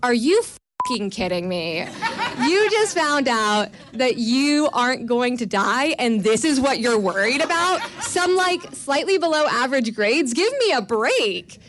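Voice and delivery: a hint of a scolding mother, half laughing; lightly voiced exasperated mom; incredulous mom. Mother scolding daughter for worrying about grades, mild exasperation. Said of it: "she goes".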